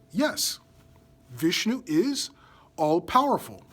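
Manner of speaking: put-on a light, innocent child's reply; an understated, guileless yes; innocent and truthful. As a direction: answer simply and sincerely, a touch innocent. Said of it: "very innocently, truthfully says".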